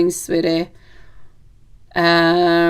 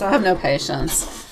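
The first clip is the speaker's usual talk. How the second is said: softer, slower repeat to herself; 2 semitones lower, 5 dB quieter than usual. Real, not acted. Reader repeats her impatience to herself, softly and slowly. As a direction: say it again, quietly and slowly, to yourself.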